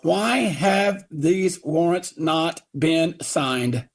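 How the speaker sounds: very slow, word by word; slow demand. Retold or imitated. Father pressing the police chief, very slow and deliberate. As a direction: spell each word out slowly. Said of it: "I said".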